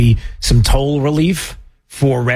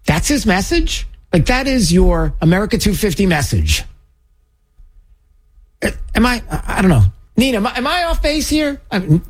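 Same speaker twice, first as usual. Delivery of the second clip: higher, quick pleading questions; baffled disbelief; 6 semitones higher than usual. Real, not acted. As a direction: ask as if you must be missing something. Host baffled, asks cohost for support.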